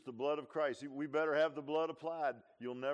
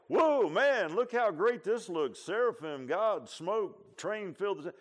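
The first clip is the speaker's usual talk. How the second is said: high, loud mock awe; impressed amazement; 4 semitones higher, 7 dB louder, slower than usual. Preacher voicing what Isaiah didn't say, in mock amazement. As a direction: gush as if wowed by the sight. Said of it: "it wasn't like".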